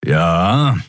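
short grumpy growl; mild growl. Acted. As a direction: growl it in sour agreement. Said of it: "knurrte Keru".

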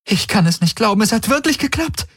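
high-pitched, elated disbelief; jubilant. A narrator's reading. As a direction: squeal it in overjoyed relief. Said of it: "Kirai fiel Galen jubelnd um den Hals".

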